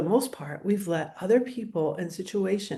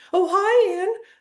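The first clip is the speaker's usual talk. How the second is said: very high, loud, strained, tense, on-edge; 12 semitones higher, 8 dB louder than usual. Demonstrating greeting a friend for coffee while already heightened: higher tone of voice. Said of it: "your tone of voice is higher".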